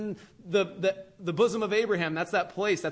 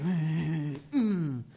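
sulky grunt. Retold or imitated. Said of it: "Cain's like".

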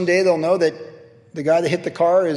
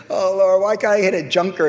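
louder, exasperated groan to heaven; mock lament; 4 semitones higher, 4 dB louder than usual. Pastor groaning to God about hitting a Mercedes, mock lament. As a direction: ham up the despair.

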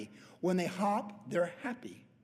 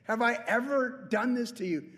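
talking donkey voice; 5 semitones higher than usual. Retold or imitated. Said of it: "Balaam's donkey's like".

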